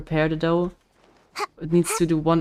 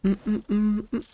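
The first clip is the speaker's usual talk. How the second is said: humming through closed lips; talking with mouth closed; 5 semitones higher than usual. Pretend. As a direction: mm sounds with lips shut. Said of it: "I'm not able to talk without moving my lips".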